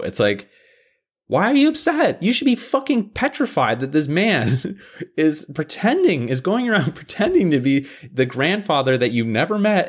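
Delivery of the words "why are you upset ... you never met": high incredulous rant with laughs; exasperated disbelief. Real, not acted. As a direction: argue it high, laughing at the absurdity.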